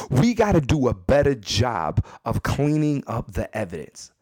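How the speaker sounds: measured, spaced-out delivery of each word; deliberate emphatic repeat. Real, not acted. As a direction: drive the advice home, word by word.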